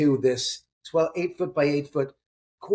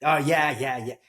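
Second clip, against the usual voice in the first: begrudging. Retold or imitated. Laborer answering about strange experiences, mildly begrudging. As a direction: imitate a mildly reluctant admission. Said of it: "like, begrudgingly".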